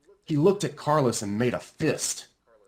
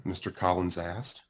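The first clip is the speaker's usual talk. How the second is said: usual speaking voice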